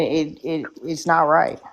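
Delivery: talking through a mouthful of food; words round a bite of food; mouth full. Real, not acted. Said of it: "sorry, let me chew the food".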